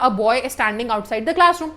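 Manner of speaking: very slow, clear example sentence; slow dictation. Shown as a demonstration. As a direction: spell it out word by word for the class. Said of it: "तो हमने बोला".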